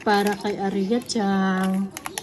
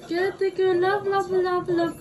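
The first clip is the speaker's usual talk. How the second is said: coaxing; 7 semitones higher than usual. Real, not acted. Mother coaxing child sweetly.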